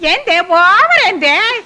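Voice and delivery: scornful drawl. Acted. Scolds maid, mocks her English.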